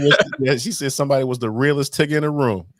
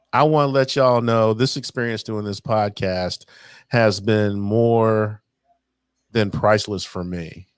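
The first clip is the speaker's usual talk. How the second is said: sincere; 3 semitones lower than usual. Real, not acted. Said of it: "it did sound like a retirement party".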